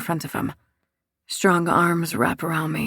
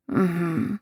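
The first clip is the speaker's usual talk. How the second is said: soft moan. A narrator's reading. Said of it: "I moan".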